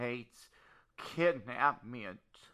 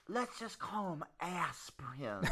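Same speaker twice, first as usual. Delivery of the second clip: whisper; 9 dB quieter than usual. Acted. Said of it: "Oh, are we on the cell phone?".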